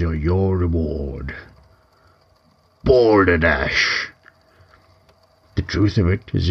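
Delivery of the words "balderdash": indignant scoff. Acted. Troll scoffing at the myth.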